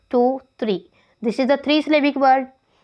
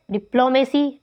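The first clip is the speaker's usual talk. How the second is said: "डिप्लोमेसी" with PLO strongest; second-syllable stress. Shown as a demonstration. Teacher showing shifting accent, "डिप्लोमेसी" stressed on PLO. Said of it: "first level से second पे".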